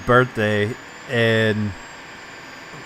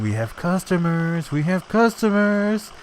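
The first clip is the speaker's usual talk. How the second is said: loud Italian guy; 7 semitones higher, slower than usual. Retold or imitated. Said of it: "stereotypical loud Italian guys".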